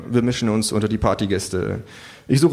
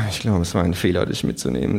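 sighing; 4 semitones lower than usual. Acted. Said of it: "sage ich seufzend".

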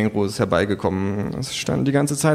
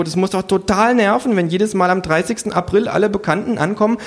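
kangaroo voice; 9 semitones higher, 3 dB louder than usual. Acted. The kangaroo speaks.

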